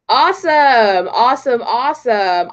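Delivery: excited. Real, not acted. Cheering Florida result.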